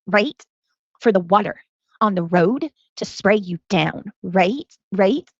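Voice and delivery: painfully slow, word-by-word delivery with long pauses; mocking imitation. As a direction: mimic her halting speech, dropping in a questioning "right". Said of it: "I'm gonna do it like her".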